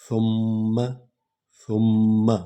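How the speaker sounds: ثم with a soft ث, no whistling s; ثم gently, doubled م, no hiss; ثم soft th, held mm; soft tha. Shown as a demonstration. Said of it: "سا کو سیٹی کی آواز نہ نکلے".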